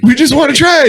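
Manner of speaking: very high, badly faked British accent; squeaky mock-British, veering Australian; terrible British accent. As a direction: ham up a botched British accent. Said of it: "my terrible British accent".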